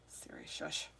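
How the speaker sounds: soft whispered shush at the phone; whispered hush. Real, not acted. Streamer hushes Siri in a whisper.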